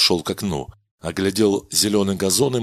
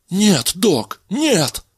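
much higher, louder panicked no; frightened plea; 10 semitones higher, 4 dB louder, much slower than usual. Acted. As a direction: beg for your life. Kadena begs before the gun.

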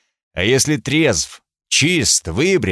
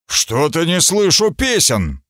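higher, ringing call to the hall; booming call; 6 semitones higher than usual. Acted. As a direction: proclaim it to the whole feast. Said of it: "возгласил зычным голосом". (зычный возглас)

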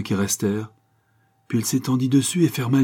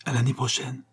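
higher, gentle smiling farewell; 4 semitones higher, 3 dB quieter than usual. A narrator's reading. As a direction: promise it softly through a smile. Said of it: "dit-elle dans un sourire". (adieu doux, dans un sourire)

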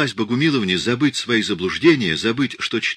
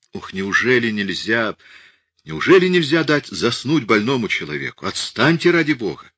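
higher and louder, gasping complaint from a sick man; breathless moaning plea; 4 semitones higher, 3 dB louder than usual. Acted. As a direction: moan it out, begging to be left alone. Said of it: "и, задыхаясь, простонал".

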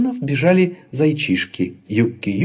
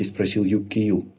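ordinary delivery, nothing marked

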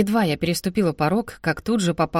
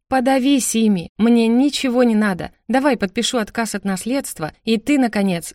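higher, emphatic refusal; heated rejection; 3 semitones higher than usual. Acted. Sister rejecting the inheritance before her brother, heated. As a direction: throw it back at him.

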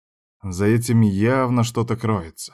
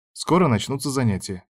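ordinary delivery

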